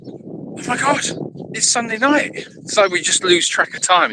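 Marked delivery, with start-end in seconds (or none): 0.1-2.3 mock panic. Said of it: "suddenly I went".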